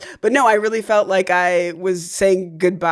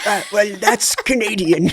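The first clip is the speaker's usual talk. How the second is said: put-on Canadian accent; 2 semitones higher than usual. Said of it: "I've never noticed your accent".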